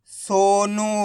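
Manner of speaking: सोनू with both vowels held long; read with its मात्रा. Shown as a demonstration. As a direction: stretch सोनू syllable by syllable. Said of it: "मात्रा लग जाएगी तो मात्रा के साथ पढ़ देना है". (सोनू को मात्रा के साथ खींचकर)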